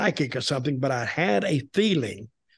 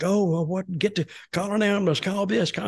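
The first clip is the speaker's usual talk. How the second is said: higher, quicker overlapping cries, not shouted; retold commotion; 4 semitones higher than usual. Wrestler recreating the locker-room din, mock frantic calls. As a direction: mimic frantic calls without raising the volume.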